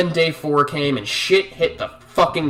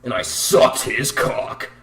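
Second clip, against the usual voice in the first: slow mock bimbo voice with a fake laugh; mimicking an oversharing teen coworker. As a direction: ham up the vapid bragging girl. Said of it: "being like".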